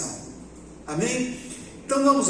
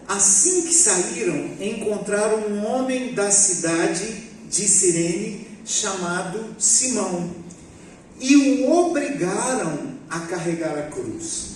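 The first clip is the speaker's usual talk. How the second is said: scripture reading. Acted.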